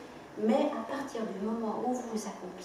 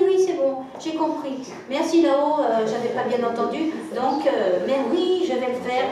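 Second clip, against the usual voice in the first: louder and higher, thrilled to finally get the message; excited realisation; 4 semitones higher, 8 dB louder, slower than usual. Retold or imitated. Telling her student she finally understood, suddenly excited. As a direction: burst out as if it all suddenly makes sense.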